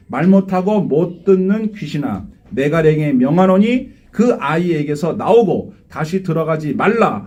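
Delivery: slow, weighty command; slow solemn reading of Jesus' words; solemn scripture rebuke. Acted. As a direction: read it as a grave order. Reads Jesus rebuking demon.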